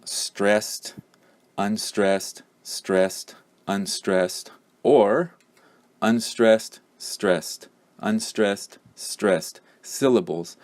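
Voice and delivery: alternating stressed and unstressed beats; stress rhythm demo. Shown as a demonstration. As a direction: tap out the rhythm, strong weak strong weak. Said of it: "English has a basic rhythm of".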